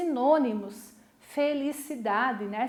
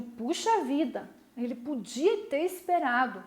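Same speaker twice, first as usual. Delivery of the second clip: disappointed. Shown as a demonstration.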